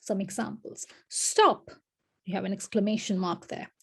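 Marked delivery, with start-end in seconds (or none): 1.1-1.7 sharp high-pitched "Stop"; exclaimed command. Shown as a demonstration. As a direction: fire it off as a demo exclamation. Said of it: "to indicate strong feelings".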